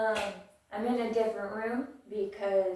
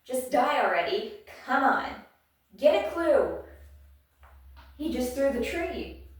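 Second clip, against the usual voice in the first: loud, raised-pitch exasperated yelling; screaming; 3 semitones higher, 6 dB louder than usual. Acted. Reader voicing Ginya mid-fight, screaming. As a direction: yell it like a fed-up fighter. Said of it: "Ginya's screaming".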